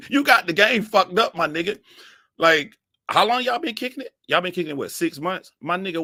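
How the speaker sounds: high, loud incredulous teasing; mocking rant. Mocking the boyfriend's weak game.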